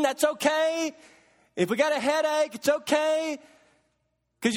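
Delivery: lightly voiced God, needling; sarcastic God. God mocking the self-sufficient churchgoer, mild sarcasm. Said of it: "Do you sense the sarcasm?".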